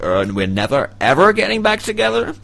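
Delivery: mock British accent, rising high; a cheeky British accent. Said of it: "in a British accent".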